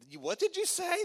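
high, loud incredulous squawk; shocked disbelief. Retold or imitated. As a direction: recoil as if you misheard. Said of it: "And I was like".

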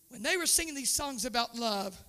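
tender hushed retelling to the pews; quiet. Shown as a demonstration. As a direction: drop the voice to almost nothing. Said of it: "repeats the line softly".

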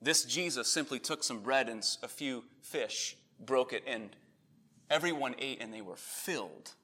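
lightly voiced, soft-spoken Peter; a hint of a hushed, reverent witness; imagined Peter testimony. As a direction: recount it quietly, as an admiring eyewitness. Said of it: "Peter could have said something like that".

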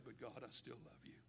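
sincere prayer. Shown as a demonstration. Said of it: "you need to say".

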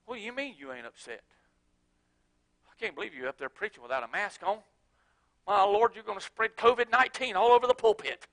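hushed grumbling churchgoer; mock critic. Critic scolding the preacher for no mask, hushed and fast.

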